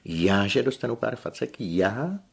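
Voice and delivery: high and loud indignant cry; shrill outraged shriek. A narrator's reading. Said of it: "zaječela". (pobouřené ječení)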